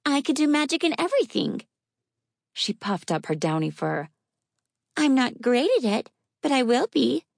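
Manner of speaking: put-on high, proud little girl; proud child voice. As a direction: boast like a determined kid.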